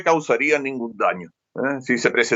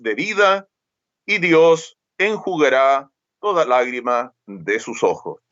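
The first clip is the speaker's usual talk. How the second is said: scripture reading. Acted. Reads a Bible passage aloud.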